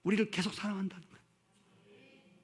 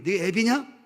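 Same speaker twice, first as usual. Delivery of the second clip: scolding Lord voice; 2 semitones higher, 4 dB louder than usual. Pretend. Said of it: "주님이 여러분에게".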